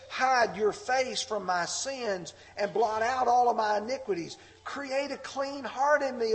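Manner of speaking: impassioned scripture reading. Acted. Reads psalm of repentance.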